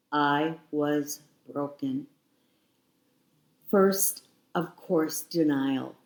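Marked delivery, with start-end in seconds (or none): 0.1-2.1 slow, heavy repeat of "I was broken"; drawn-out, weighted "I was broken"; slower repeat. Real, not acted. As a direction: let "I was broken" sink in slowly.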